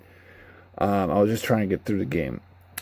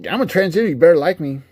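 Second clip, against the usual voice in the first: higher, louder demanding parody; mock preachy character; 8 semitones higher, 6 dB louder, faster than usual. Mocking a preachy game character: higher demanding voice. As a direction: fling it out like a pushy caricature. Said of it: "He's not like".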